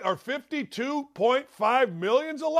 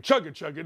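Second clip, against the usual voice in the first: train noise; 6 semitones lower, faster than usual. Shown as a demonstration. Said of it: "That's how you do a train".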